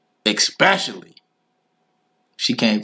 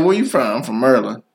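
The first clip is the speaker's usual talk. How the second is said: put-on local Maryland accent. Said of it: "be like".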